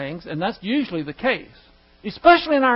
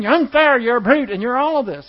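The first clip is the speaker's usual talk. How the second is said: raised, louder imitation of a screaming wife; mock screaming; 2 semitones higher, 4 dB louder than usual. Wife screaming accusations at husband, mock outburst. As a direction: mimic an angry wife's outburst without really screaming. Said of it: "she might be screaming".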